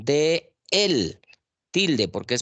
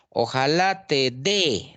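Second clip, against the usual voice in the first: 1 slow example sentence; 2 semitones higher, slower than usual. Shown as a demonstration. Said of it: "dé debe llevar tilde".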